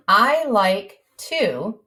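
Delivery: slow, word by word as she writes; slow dictation. Shown as a demonstration. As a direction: spell it out slowly while writing. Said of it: "Let's go ahead and spell".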